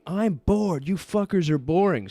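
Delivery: high, loud whiny yell; retold scream. Drunk friend screaming at the group that he's bored, loud whiny yell. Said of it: "And he's just screaming".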